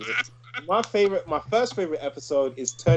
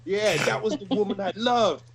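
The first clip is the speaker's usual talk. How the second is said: mock tearful Spider-Man; 5 semitones higher than usual. Quoting Spider-Man's grief.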